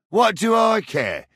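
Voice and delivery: angry dismissal. Acted. Man refusing to care about the trouble, angry dismissal. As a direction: throw it back at them sharply. Snapping back.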